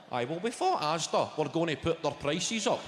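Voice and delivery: usual speaking voice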